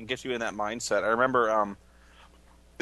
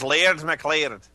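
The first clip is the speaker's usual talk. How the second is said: Scottish lord; 2 semitones higher, 5 dB louder, slower than usual. Retold or imitated. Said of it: "I was playing a Scottish lord".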